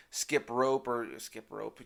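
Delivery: muddled mix-up of the saying; slip of the tongue. Real, not acted. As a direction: fumble the idiom. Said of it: "That's what I meant to say".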